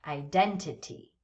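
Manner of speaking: "identity" with DEN standing out; stress on second syllable. Shown as a demonstration. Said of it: "The second syllable".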